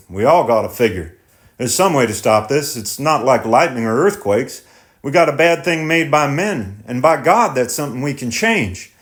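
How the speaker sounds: lightly voiced thoughtful farmer; tenant farmer voice. Tenant resolves.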